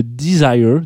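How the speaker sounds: "desire" said the English way, di-ZAI-er; a quick English-accented "desire"; English pronunciation. Shown as a demonstration. Radio host tries the English name first, lightly English-accented. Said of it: "mon accent anglais, euh, vaut ce qu'il vaut".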